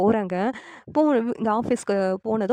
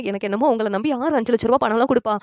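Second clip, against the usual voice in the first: mildly urgent plea, rising at the end; lightly acted begging for the truth; insistent pleading; 3 semitones higher than usual. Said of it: "நிலா ரொம்ப கெஞ்சி கேக்குறாங்க".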